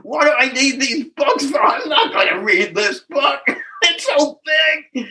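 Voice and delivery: half-laughing mock protest at the gift; mocking his old self. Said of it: "and I said".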